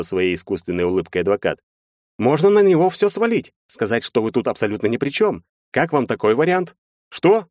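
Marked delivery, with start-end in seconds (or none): 2.2-6.8 high-pitched, animated lawyer; lawyer character. A narrator's reading. Lawyer laying out the defense to his clients, high animated lawyer voice. 7.1-7.5 high, loud startled question; exclaimed. A narrator's reading. Client hearing he should blame the driver, exclaimed in shock. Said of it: "воскликнул я".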